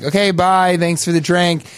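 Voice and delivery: a hint of a sweet feminine farewell; female voice. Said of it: "went back to the female voice".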